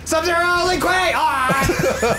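high shouted war cry; battle cry. Pretend. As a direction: yell it like charging in. Battle cry in Sub-Zero role.

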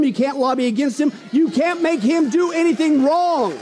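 rally the congregation, building; full-force preaching. Real, not acted.

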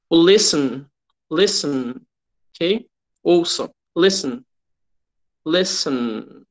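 listen with the end going through the nose; listen, nasal final syllable. Shown as a demonstration. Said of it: "Ele sai já só pelo nariz".

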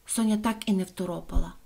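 ordinary delivery, nothing marked

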